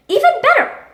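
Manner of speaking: high, loud burst of delight; excited exclamation. Acted. Reacting to news of the Nobel Prize, excited exclamation. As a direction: top it with a high, gleeful cry. Einstein exults after the prize.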